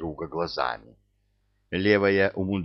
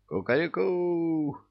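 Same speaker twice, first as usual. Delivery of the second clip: frantic rooster crow; 9 semitones higher than usual. Acted. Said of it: "истошно заорал он".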